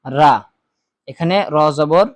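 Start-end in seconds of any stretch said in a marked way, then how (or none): 0.0-0.3 রা said as a long open ra, the wrong way; common mistake. Shown as a demonstration. Teacher showing viewers the wrong reading, রা stretched long. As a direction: show the common mispronunciation রা with a stretched vowel. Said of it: "আমরা অনেকেই পড়ি হচ্ছে".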